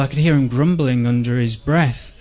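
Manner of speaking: ordinary delivery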